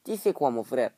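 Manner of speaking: mock North African Arab French; amateur Arabic-accent imitation; attempted Arabic accent. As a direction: try a quick Arab-accented French greeting. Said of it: "c'est comment, arabe?".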